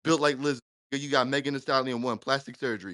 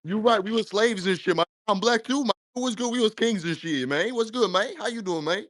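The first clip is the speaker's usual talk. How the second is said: cosplayed Black American accent, higher on the catchphrases; put-on Black American accent; 4 semitones higher than usual. Caller mockingly agreeing with the host, put-on Black American accent. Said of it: "you're trying to cosplay as us".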